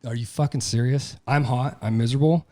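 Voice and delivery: mock your own whining self; hammed-up grumbling to the wife; whiny complaining. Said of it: "I'm like".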